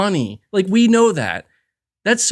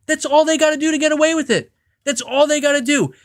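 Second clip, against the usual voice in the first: fast, higher, worked-up rant; rushing, exasperated, higher pitch; heated rant; 6 semitones higher, faster than usual. Real, not acted. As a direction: spit it out fast, getting more fired up.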